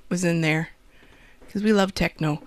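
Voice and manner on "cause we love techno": a slight unplanned Wisconsin lilt on techno; just let your Wisconsin vowels slip out; relaxed Midwestern Wisconsin twang; natural Wisconsin accent. Real, not acted. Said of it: "I heard my, uh, Wisconsin accent there".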